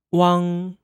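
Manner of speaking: "wang" as one syllable ending in ng; Mandarin final wang. Shown as a demonstration. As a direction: model "wang" clearly for learners. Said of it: "Let's say that again".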